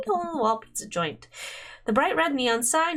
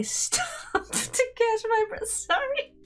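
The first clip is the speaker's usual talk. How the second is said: words slowed and broken by giggles; trying to read through a fit of laughter; laughing; 13 semitones higher, much slower than usual. Real, not acted. Reader keeps cracking up over the rock scene, laughing through it. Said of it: "oh, I'm still laughing".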